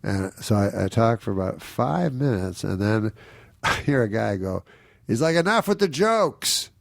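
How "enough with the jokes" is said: higher, slow mock heckler; heckler's complaint. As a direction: drag it out like an annoyed heckler. Heckler in the audience.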